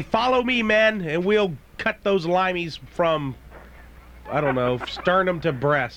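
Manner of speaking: rally the men in a hammed-up Scottish accent. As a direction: play a Braveheart-style Scot rallying his troops. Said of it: "say those words in a Scottish accent".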